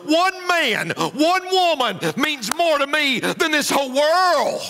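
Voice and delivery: voicing God. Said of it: "God said".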